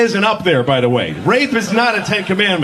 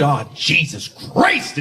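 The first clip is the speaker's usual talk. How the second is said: satisfied sigh; 5 semitones lower, slower than usual. Shown as a demonstration. Comic showing how satisfying swearing is, relieved. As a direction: let it out like relief. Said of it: "it just feels good".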